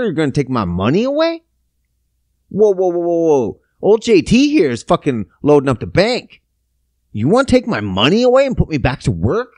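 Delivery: indignant acted protest, jumping up in pitch; put-on indignant disbelief; mock outrage. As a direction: act out someone incredulous at losing their money. Voicing outraged people threatened with losing money.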